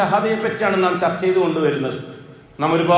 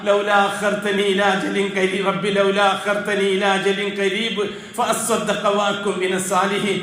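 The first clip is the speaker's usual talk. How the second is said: slow, measured tajweed chant; slow recitation of Arabic scripture; Quranic recitation; slower than usual. Acted. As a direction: intone the verse slowly and evenly. Quran verse recited in sermon.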